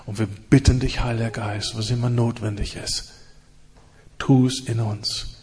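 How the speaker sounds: intense spoken prayer, rising and falling; impassioned congregational prayer; fervent prayer. Acted. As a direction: pray aloud over the congregation.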